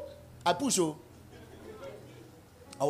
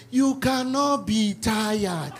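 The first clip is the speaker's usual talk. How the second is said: mock whisper; much slower than usual. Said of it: "one woman behind us just whispering".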